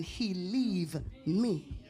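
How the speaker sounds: mock lament. Mocking jilted woman lament.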